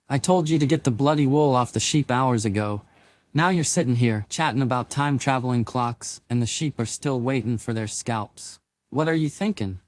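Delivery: a Scottish woman telling off, annoyed; irritated Scottish accent. Acted. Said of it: "her deep Scottish accent thick with irritation".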